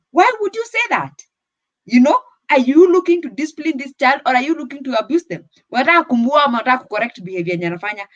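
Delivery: high-pitched pointed questioning; retold challenge. Retells challenging an angry parent.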